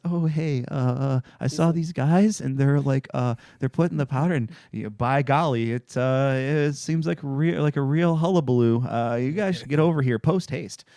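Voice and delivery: lightly voiced bumbling nervous guy calling the cops; a hint of fumbling folksy politeness; mildly hammed-up awkward tipster; nervous caller. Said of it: "He just".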